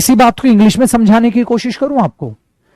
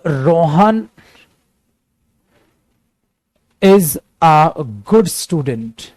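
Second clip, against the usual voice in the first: slow dictation; 3 semitones lower, much slower than usual. Shown as a demonstration. Teacher dictates example sentence slowly.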